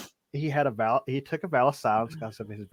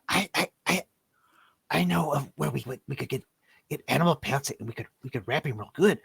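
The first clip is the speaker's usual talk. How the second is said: little goblin voice; 3 semitones higher than usual. Acted. GM voicing the little goblin to the party, nervous stammer. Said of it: "the little goblin looks like, says".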